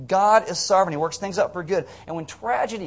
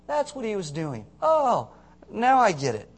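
realization; 4 semitones higher than usual. Retold or imitated. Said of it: "and then we go".

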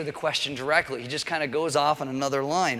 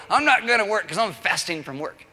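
mock pious; 5 semitones higher, 4 dB louder than usual. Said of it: "go to your boss and go".

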